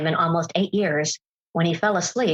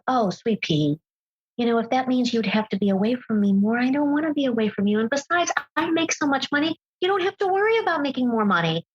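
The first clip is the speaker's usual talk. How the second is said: lightly voiced husband, higher, sugary and persuasive; sweet-talking husband; 5 semitones higher than usual. A speaker mimics her husband coaxing her out of taking better jobs, lightly mocking. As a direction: coax her like a doting husband, mildly mocking. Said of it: "That's how it sounds".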